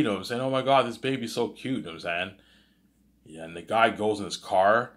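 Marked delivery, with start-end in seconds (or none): 0.4-1.8 higher-pitched mock gushing; excited kid. Kid gushes over the new baby, excited. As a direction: lightly play a delighted child.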